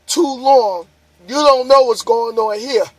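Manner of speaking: talking through a yawn; words stretched by a yawn. Real, not acted. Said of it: "Sorry about the yawning".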